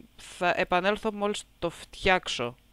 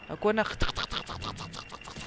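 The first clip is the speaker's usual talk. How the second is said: imitating clicks; 7 dB quieter than usual. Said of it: "Τι ήχο βγάζουν".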